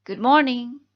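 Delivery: Good morning called out loud with a rising morning. Shown as a demonstration. Teacher modeling a greeting to students, loud rising Good morning. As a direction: greet the class brightly and loudly with Good morning. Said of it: "Kalian bisa mengucapkan".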